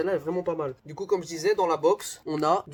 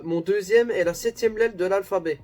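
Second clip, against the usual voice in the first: louder riddle reading; reading aloud; 4 semitones higher, 6 dB louder than usual. Real, not acted. Reading the next clue to viewers, firm read-aloud.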